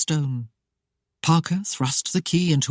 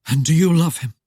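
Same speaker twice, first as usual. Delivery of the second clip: rasping demand; 5 dB louder than usual. Acted. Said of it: "the rasping voice demanded".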